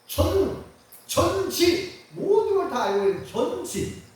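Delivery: high, loud ringing shouts of each word; emphatic proclaiming. Real, not acted. Pastor proclaims God's attributes to the congregation, fervent. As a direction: cry the words out with fervor. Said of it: "이걸 뭐라고 해요".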